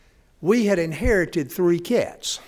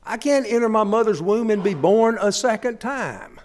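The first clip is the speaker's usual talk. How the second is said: higher, puzzled disbelief; incredulous; 6 semitones higher than usual. Retold or imitated. Old Nicodemus doubting Jesus, higher and incredulous. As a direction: question it, higher, baffled. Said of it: "Nicodemus reacted".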